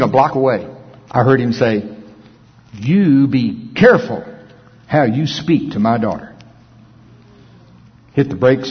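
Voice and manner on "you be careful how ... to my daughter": a stern father, lightly voiced; voice of the Lord. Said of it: "just like I'm gonna say it".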